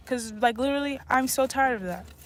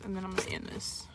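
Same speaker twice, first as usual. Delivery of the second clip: drops to a whisper to wrap up; whispered sign-off; 4 semitones lower, 11 dB quieter than usual. Real, not acted. Vlogger signing off to viewers, whispering. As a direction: whisper the sign-off like it's a secret. Signing off under her breath.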